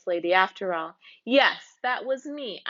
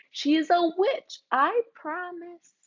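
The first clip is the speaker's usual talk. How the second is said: insistent plea; 7 semitones higher than usual. Acted. Girl pleads to be believed.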